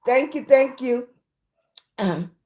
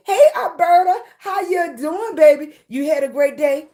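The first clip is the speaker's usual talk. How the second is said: excited greeting; 7 semitones higher, 4 dB louder than usual. Real, not acted. Greets a viewer in the chat.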